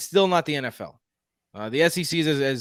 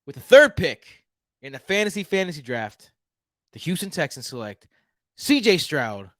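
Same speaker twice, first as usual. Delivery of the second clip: put-on Houston accent; 2 semitones higher than usual. Houston native announces the Texans draft pick in his Houston accent. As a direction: play a proud Houston Texan making the pick, with a Texas accent. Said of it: "This is my Houston accent".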